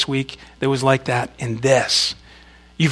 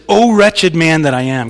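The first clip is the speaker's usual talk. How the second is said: desperate; 3 semitones higher, 7 dB louder than usual. Acted. Preacher voicing Paul's anguish for the congregation, desperate. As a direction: cry out in mock despair. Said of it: "Can you hear that desperation in his voice?".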